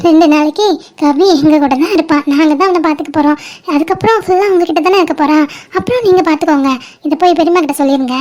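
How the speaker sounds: mock-sweet, after a put-on laugh; teasingly cheerful restatement. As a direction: say it smiling to needle the listener. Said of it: "சிரிச்சுட்டே சொல்லுவோமா மலரு?".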